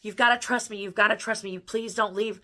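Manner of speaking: put-on retelling a teenage plea to her dad, mildly tearful; tearful pleading. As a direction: beg him to stay as if in tears. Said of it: "I'm crying".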